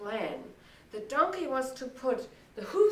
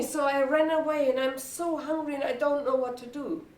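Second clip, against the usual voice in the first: slightly raised, plaintive dog; lightly voiced weary dog; 2 semitones higher than usual. Old hunting dog explains why he ran away, lightly plaintive. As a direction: tell your troubles as the old dog.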